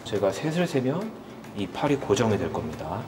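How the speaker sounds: lightly voiced hypnotist guiding. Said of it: "최면술사 닥터 크레용입니다".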